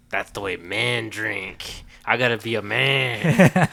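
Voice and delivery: slow, drawn-out self-serious declaration; mock manly resolve. Son retelling how he copied dad's black coffee, mock manly resolve. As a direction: draw it out like a kid playing tough.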